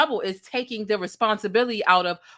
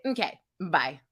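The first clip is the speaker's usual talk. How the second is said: light, low business phone goodbye; a quick polite goodbye to end a call; customer service sign-off; 5 semitones lower, 4 dB quieter than usual. Retold or imitated. Imitating a polite caller ending a phone call. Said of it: "When someone gets off the phone and they say".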